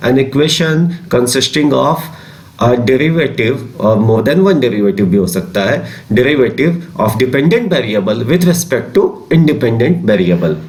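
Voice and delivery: slow, spaced-out dictation of a definition. Acted. Teacher dictating a definition to class twelve students, slow and spaced. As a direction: read it slowly so students can write.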